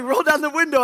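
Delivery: high, loud imitated order; mock angry demand. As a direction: bark the order at the car. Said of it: "He's like".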